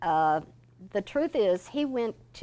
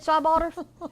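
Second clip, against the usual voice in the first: retold easygoing boss voice, pitched much higher; cheerful Mister George; 9 semitones higher, 7 dB louder than usual. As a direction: brush off the apology lightly and brightly, as Mister George.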